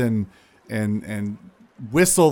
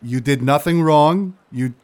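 lightly voiced louder reassurance; Tavar's voice; 3 semitones higher, 4 dB louder than usual. Tavar reassuring Muddle, lightly louder voice. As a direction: tell her it isn't her fault. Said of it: "he looks over at you, Muddle".

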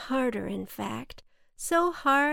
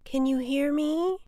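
higher, questioning call; 6 semitones higher, 4 dB louder than usual. A narrator's reading. Cloud checks the boy below can hear, calling out. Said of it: "shouted the cloud".

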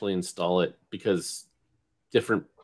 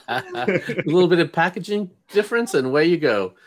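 laughing; 5 semitones higher than usual. Real, not acted. Laughing at truck joke.

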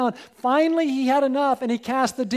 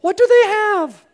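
wondering question; 10 semitones higher, 9 dB louder than usual. Acted. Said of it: "Wouldn't it be great if we did?".

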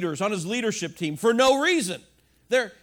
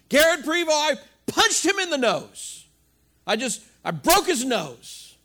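mock confession; 5 semitones higher, 4 dB louder than usual. Pastor acts out punching confession.

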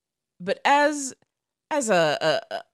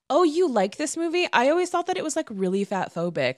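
mock prissy stranger; 7 semitones higher than usual. Mocking a straight stranger's message.

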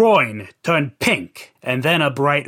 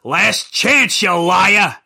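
threatening; slower than usual. Acted. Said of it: "He threatened poor Chrissy".

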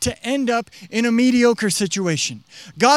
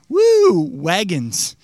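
mock enthusiasm; 3 dB louder, much slower than usual. Mocking modern unimpressed listener.

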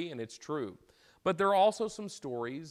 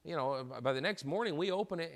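higher pitched indignant protest from the king; 5 semitones higher than usual. Acted. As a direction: play the king's offended disbelief, raised up high. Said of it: "And the king's indignant".

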